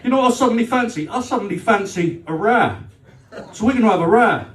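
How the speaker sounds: sweetly spoiling for a fight; sarcastic. Retold or imitated. Girlfriend picking a fight.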